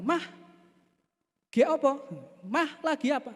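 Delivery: lightly acted husband calling his wife. Husband calls wife from afar.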